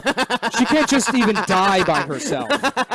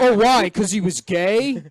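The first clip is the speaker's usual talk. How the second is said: mock accuser; 5 semitones higher, 6 dB louder, slower than usual.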